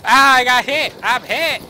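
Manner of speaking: high, loud yell; alarmed high-pitched shouting; hit in battle. Pretend. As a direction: cry out as if shot. Cries out on being hit.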